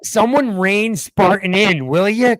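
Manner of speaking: drawn-out mock exasperated plea; hammed-up weary outburst. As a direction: plead for help, fed up. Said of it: "I'm like this".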